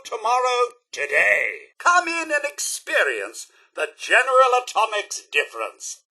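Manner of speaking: high-pitched, showy sales pitch; grand advertising spiel; promotional announcer. Acted. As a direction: sell it like an old commercial. Reciting company advertisement to customers.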